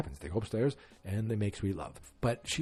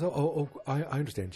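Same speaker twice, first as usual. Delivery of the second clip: caught-out man stammering higher; flustered, higher voice; 6 semitones higher than usual. Retold or imitated. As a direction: stammer it out, pitched up.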